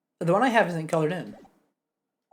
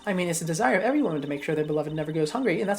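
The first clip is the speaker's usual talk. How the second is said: put-on cranky old lady; 3 semitones higher than usual. Old lady halting young prosecutors, cranky old woman. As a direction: bark it like a grumpy granny.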